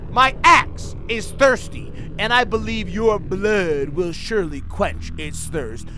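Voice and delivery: slow, menacing villain read; lightly voiced killer. Reading the killer's phone threat, slow and menacing. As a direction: drag out the threat like a slasher. Voicing the game's villain caller.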